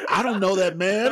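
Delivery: put-on high, quick kid's denial; quick mock little girl. Telling friends Pan's line, quick high kid voice. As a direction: toss it off like a cheeky girl. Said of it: "And she said".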